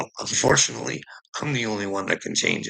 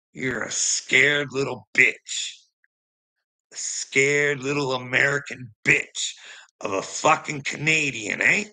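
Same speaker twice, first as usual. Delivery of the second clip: taunting insult; 5 semitones higher than usual. Real, not acted. Taunting Uncle Will directly.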